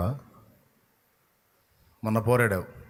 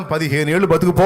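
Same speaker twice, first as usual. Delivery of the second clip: booming declaration; 3 semitones higher, 6 dB louder than usual. Acted. God declaring fifteen more years.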